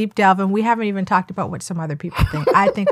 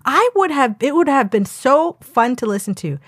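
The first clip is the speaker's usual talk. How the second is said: raised, animated reading with high jumps; sassy comment reading; 6 semitones higher than usual. Acted. Co-host acting out a viewer's harsh review, sassy. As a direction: perform the review with sass. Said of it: "Then it was just like".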